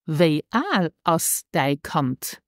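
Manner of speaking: slow model phrase. Shown as a demonstration. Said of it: "How old is your child".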